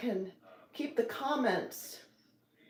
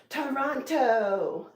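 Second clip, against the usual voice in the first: excited drawn-out call; 3 semitones higher, 4 dB louder, much slower than usual. Real, not acted. Drawn-out exclamation.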